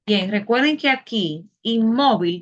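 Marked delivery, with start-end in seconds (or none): 1.6-2.4 "inmóvil" with the middle syllable MÓ stressed. Shown as a demonstration. Teacher asking where the greatest force falls, "inmóvil" stressed on MÓ. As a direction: lean on MÓ in "inmóvil". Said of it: "dónde se hace la, la mayor fuerza".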